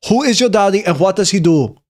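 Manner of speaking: thick Austrian movie-quote delivery; Arnold Schwarzenegger. Acted. Streamer quotes a film star's question, heavy Austrian accent.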